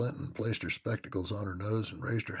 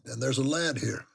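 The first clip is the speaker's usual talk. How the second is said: loud servant; 6 semitones higher, 6 dB louder than usual. A narrator's reading. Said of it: "he added".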